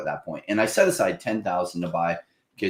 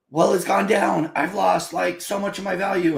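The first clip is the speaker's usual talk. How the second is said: whiny newbie; 12 semitones higher than usual. Retold or imitated. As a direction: whimper about lost value like a rattled beginner. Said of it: "And it's like".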